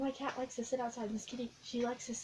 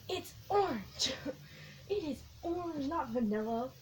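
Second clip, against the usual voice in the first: mock annoyed; 4 semitones higher than usual. Real, not acted. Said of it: "I'm getting angry now".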